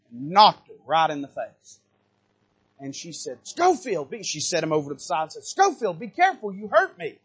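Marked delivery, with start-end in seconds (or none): 3.4-7.2 higher-pitched mock scold of a child; retold scolding mother. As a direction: imitate mama gently scolding her boy. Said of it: "she had scolded him and rebuked him".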